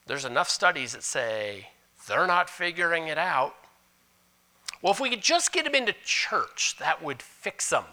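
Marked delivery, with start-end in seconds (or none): 4.8-7.9 high naive mock voice; mocking wishful thinking. Pastor mimics churchgoers' easy fixes, high and mocking. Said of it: "No, it doesn't".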